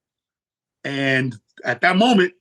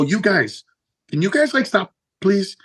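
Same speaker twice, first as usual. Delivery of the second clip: pleading; 5 semitones higher than usual. Retold or imitated. Pleading with hecklers from stage.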